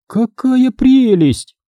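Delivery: mother admiring a feature, slow delighted gush. A narrator's reading. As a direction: coo over it like a treasure. Mother admiring the new car.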